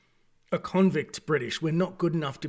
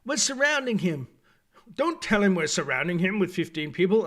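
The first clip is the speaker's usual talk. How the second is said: higher opening, mild mock-comedy delivery; hammy comedy; 3 semitones higher than usual. Reviewer mocking Disney-style comedy in the show, lightly hammy. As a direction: lightly imitate a Disney comedy bit, pitched up at the start. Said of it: "the Disney version of comedy".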